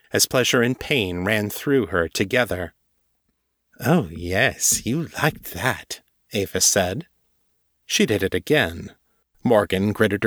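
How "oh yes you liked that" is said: gloating mistress voice. A narrator's reading. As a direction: savour her pet's reaction. Ava gloating, slow.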